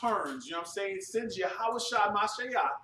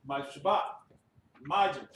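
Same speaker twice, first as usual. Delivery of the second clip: ritual call-out; 4 dB louder than usual. Real, not acted. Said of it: "one courtesy salute to the teacher".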